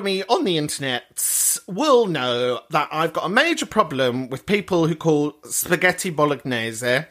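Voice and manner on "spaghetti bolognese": put-on Italian accent on the dish name. Shown as a demonstration. Comic shows off to followers, put-on Italian accent. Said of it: "I can do an Italian accent".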